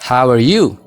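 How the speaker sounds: "How are you" said as "how-er you"; native-style linking. Shown as a demonstration. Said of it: "A keessaa baasaati jechuudha". (A keessaa baasuun)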